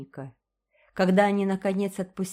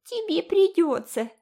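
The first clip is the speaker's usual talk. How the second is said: very high, louder teasing parody; mocking mimicry; 12 semitones higher, 5 dB louder than usual. A narrator's reading. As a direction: ape her words nastily. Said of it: "передразнила Джеральдина". (передразнивая)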